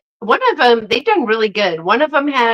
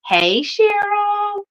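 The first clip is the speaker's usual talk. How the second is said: much higher, slow sing-song hello; drawn-out greeting; 11 semitones higher, much slower than usual. Real, not acted. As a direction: stretch her name out high and bright. Greeting a viewer who joined live.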